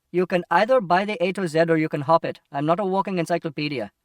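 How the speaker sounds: loud, testy rebuff, quickening at the end; irritated shopkeeper. Acted. Shopkeeper refusing to give directions, irritated. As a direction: send the customer packing, irritably.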